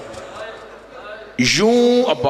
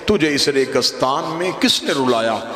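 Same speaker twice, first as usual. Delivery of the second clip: weeping plea. Acted. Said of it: "जब अब्बास ने रो के कहा ना".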